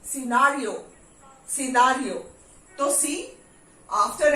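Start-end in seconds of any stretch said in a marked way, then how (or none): 0.0-2.1 सिनेरियो said sinariyo; silent c. Shown as a demonstration. Teacher modelling सिनेरियो for students. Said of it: "सी is not".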